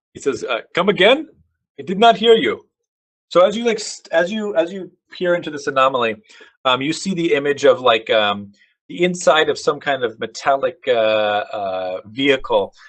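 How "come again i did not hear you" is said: put-on German accent, pitched up. Voicing a soldier talking on a radio: German accent. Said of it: "was that a German accent?".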